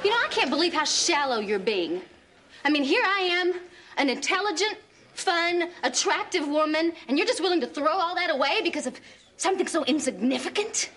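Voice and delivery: affronted, rising into disbelief; indignant. Acted. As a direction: build a case for your own worth. Quarrel with boyfriend dumping her.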